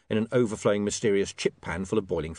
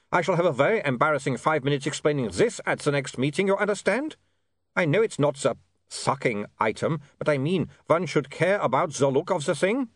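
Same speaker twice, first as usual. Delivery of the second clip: put-on higher, put-upon vampire accent; grumbling vampire Otto; 5 semitones higher than usual. Otto frets about the next meeting, peevish vampire. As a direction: grumble like an embarrassed foreign vampire.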